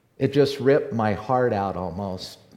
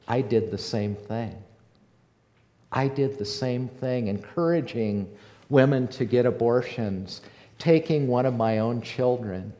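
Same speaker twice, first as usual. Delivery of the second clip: tearful confession. Retold or imitated. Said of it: "she broke down in tears".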